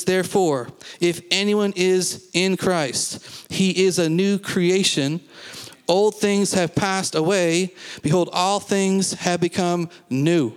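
slow, emphatic scripture reading. Acted. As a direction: proclaim the verse deliberately, phrase by phrase. Reads scripture to congregation.

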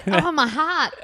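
Skinner. Acted. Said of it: "any impression of Skinner we do".

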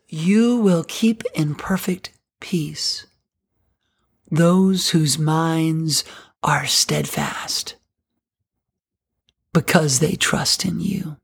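slow, breathy whispered reading; hushed scripture. Acted. Reads scripture softly, slowly.

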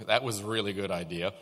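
dry, quick mock praise; sarcastic. Preacher showing how sarcastic friends talk, sarcastic. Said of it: "Sarcasm usually comes with a roll of the eyes".

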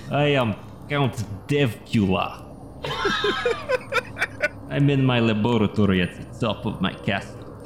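a hint of a theatrical vampire host. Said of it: "do a vampire".

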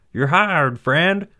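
loud, high delighted shout; foreman shouting over noise. Acted. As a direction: holler it over hammer noise. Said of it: "the foreman shouted".

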